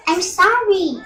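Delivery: high, loud cry of sorry; pleading apology. Acted. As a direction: call out sorry across the water. Son apologises loudly.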